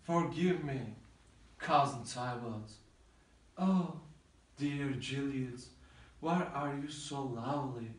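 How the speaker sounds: a lover's quiet, grieving farewell; grieving lament. Acted. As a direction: mourn over her body, hushed. Romeo grieves over Juliet's body.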